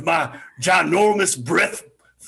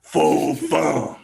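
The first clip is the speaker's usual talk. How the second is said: giant voice; 3 semitones lower, slower than usual. Acted. Giant's opening chant.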